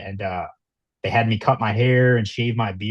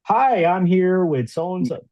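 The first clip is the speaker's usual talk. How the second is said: calm news reporter; 8 semitones higher, slower than usual. Retold or imitated. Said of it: "You see news reporters, they're like".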